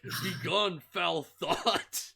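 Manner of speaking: loud, grandiose banishing command; hammed-up fantasy hero casting out evil; mock epic warrior. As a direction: proclaim it pompously for laughs. Acts kid turned ancient warrior.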